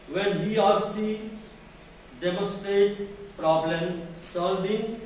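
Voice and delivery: deliberate lecture-point dictation; slow dictation reading. Acted. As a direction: read each English word out very slowly.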